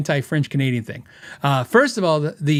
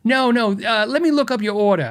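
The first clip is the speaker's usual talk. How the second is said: lightly imitated New York phone lady; helpful New York receptionist impression; bad New York accent; 4 semitones higher than usual. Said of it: "I have a horrible, uh, New York accent".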